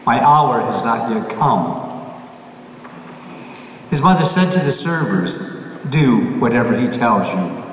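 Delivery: measured, solemn scripture reading; gospel reading. Acted. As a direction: proclaim it from the pulpit. Priest reads the Gospel aloud.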